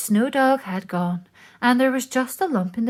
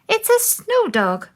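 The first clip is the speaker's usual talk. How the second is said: smiling; 13 semitones higher, 4 dB louder than usual. A narrator's reading. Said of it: "smiled Nut".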